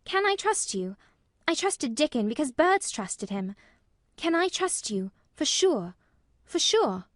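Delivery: put-on urgent child's plea, high and loud; imploring. A narrator's reading. Anxious Mary asking Colin to promise, imploring. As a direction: beg earnestly for a promise. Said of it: "she implored".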